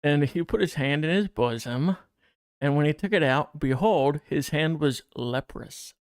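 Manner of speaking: measured Bible reading aloud; deliberate reading-aloud voice with slight lift; scripture reading. Acted. Reads the Bible passage aloud.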